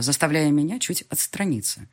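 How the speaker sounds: ordinary delivery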